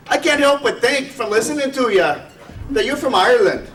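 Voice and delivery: a bloke in a pub, lightly hammed-up Irish brogue. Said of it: "I'll try to do a little Irish brogue".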